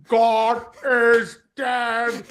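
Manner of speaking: mock solemn quote. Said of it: "when someone's like".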